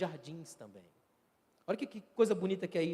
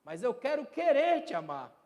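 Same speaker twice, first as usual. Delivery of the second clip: higher, louder aching confession; pleading prayer; 5 semitones higher, 4 dB louder than usual. Acted. Preacher quoting Teresa of Ávila's prayer, high and aching. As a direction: lift it like a raw confession. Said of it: "a oração de Teresa de Ávila".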